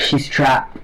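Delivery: eerie breathless whisper; ghostly whisper. Acted. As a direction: whisper it like a fading spirit. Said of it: "and she's like".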